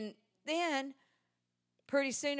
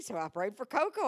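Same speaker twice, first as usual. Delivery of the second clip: ordinary talk, nothing marked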